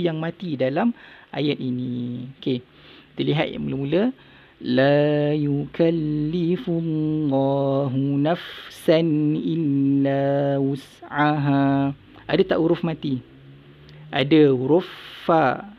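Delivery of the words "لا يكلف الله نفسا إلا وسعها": melodic recited verse; lightly chanted recitation; Quran recitation. Shown as a demonstration. Teacher recites verse to class.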